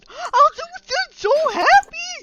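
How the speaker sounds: shrill, very loud, very high gleeful goblin voice. Voicing a goblin who answers wide-eyed and gleeful: gleeful goblin voice. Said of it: "He goes wide-eyed, gleeful, and says".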